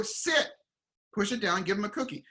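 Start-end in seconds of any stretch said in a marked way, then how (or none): 0.0-0.5 sharp high command "Sit"; dog command. Retold or imitated. Owner commanding the new puppy, a high sharp call. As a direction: snap the word out like training a puppy. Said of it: "you go".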